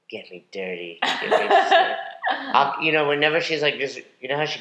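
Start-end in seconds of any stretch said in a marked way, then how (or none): 0.1-1.9 eager dog begging for dirt. Pretend. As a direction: voice the dog, pleading. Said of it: "this lab is like".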